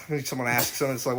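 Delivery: usual speaking voice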